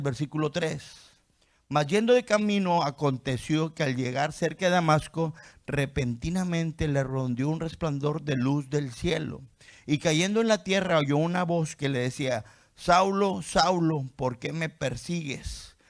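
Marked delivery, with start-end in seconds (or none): 1.7-12.4 raised, ringing scripture reading. Acted. Preacher reads Acts to the congregation, raised and ringing. 12.8-15.8 calling out. Acted. Voicing Jesus calling Saul.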